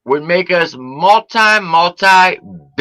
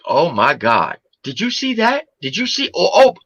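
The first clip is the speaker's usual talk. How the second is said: mock hysterical laughing; 3 semitones higher than usual. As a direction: lose it laughing while pointing things out. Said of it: "I'll be pissing myself, going".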